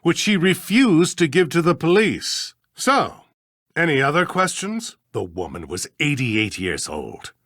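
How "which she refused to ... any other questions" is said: irritated, higher-pitched brush-off; exasperated retort with raised pitch; testy dismissal. Acted. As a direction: shut down the questioning, pitch climbing. Judge testily dismisses their questioning.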